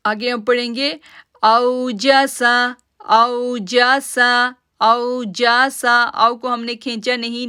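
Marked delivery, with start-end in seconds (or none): 1.4-6.0 "औजासा" with "औ" gentle and short; don't drag the "औ", keep it soft; soft unstretched au. Shown as a demonstration. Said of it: "नरमी के साथ पढ़ा". ("औ" नरमी से, बिना खींचे)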